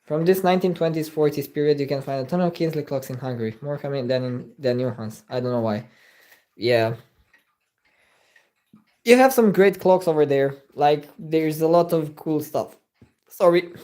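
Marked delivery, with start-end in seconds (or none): 1.8-12.8 burping between words; words broken by burps; talking while burping. Real, not acted. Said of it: "I'm burping randomly".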